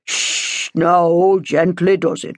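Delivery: hushing priest calming a quarrel; gently intervening peacemaker; soothing. A narrator's reading. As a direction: open on a long shush, then settle them.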